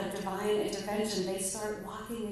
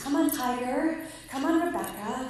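lightly raised coaxing call; calling by name; 5 semitones higher, 4 dB louder than usual. Retold or imitated. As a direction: coax the animals along by name.

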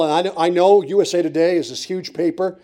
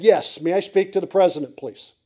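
serious, sincere voice. Retold or imitated. Caller asking the White House operator for the president, earnestly sincere. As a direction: ask very sincerely and properly. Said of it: "my most serious, sincere voice".

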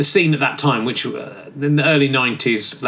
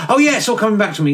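cheeky geezer John; 6 semitones higher, faster than usual. Acted. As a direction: play John as a careless lad in a cell. John the Baptist as bloke.

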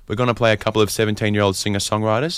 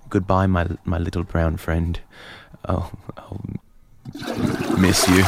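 mock tender farewell; 2 semitones lower than usual. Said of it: "just a little good".

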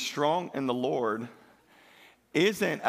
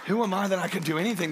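quicker, fuller, insistent question; fast emphatic repeat; 5 semitones higher, 4 dB louder, faster than usual. Acted. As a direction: fire it back with conviction. Repeats surrender line twice.

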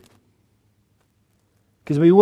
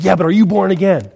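mildly pushy, louder questioning; in-your-face challenge; 3 semitones higher, 5 dB louder than usual. Retold or imitated. Street preacher challenging a pastor he just met, in-your-face. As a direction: imitate someone getting in your face. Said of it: "he just was, like, in my face".

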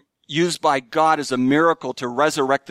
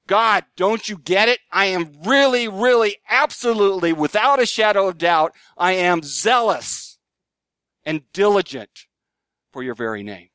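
higher, insistent, leaning hard on really and zealous; emphatic plea; 5 semitones higher than usual. Retold or imitated. Preacher voicing Elijah protesting to God, emphatic and higher. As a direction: press every word as Elijah pleads. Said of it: "it's emphatic".

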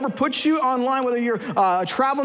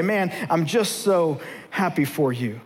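grudging congratulations; 7 semitones lower, slower than usual. Acted. Fake congratulations on promotion.

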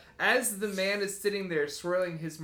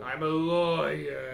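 slow deliberate; slower than usual. Acted. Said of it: "making fun of the way I talk".

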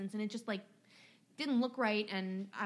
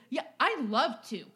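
louder, snippy retort; mock sarcastic huff; 3 semitones higher, 5 dB louder than usual. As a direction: snap it back sarcastically like the customer. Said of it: "he's like".

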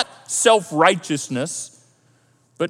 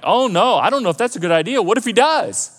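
mock alarm, louder and higher start; alarmed reaction; 5 semitones higher, 3 dB louder than usual. Pastor reacting to a prayer to be humbled, mock alarm. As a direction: balk quickly at a risky prayer. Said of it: "I'm like".

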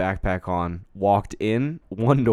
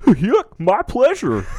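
lightly voiced chirpy server; a hint of forced cheer; Chick-fil-A politeness; 9 semitones higher, 4 dB louder, much slower than usual. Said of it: "Chick-fil-A levels".

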